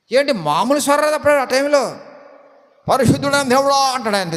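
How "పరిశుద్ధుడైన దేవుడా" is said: lightly mocked high prayer voice; changed pulpit voice. Preacher mocking a pastor addressing Holy God, in an altered voice. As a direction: imitate a pastor switching into a put-on holy voice. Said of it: "స్వరం మారిపోయింది".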